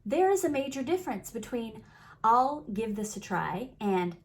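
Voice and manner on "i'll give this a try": hedging, rising and unsure; tentative try. Shown as a demonstration. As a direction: say it like you're only half committed. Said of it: "you can feel it in your body".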